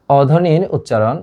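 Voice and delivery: অধ্বনির উচ্চারণ said slowly, each syllable spelled out for the class; slow, teacherly stress on অধ্বনির; slow emphatic term. Shown as a demonstration. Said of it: "আমরা আজকে শিখবো হচ্ছে অধ্বনির উচ্চারণ".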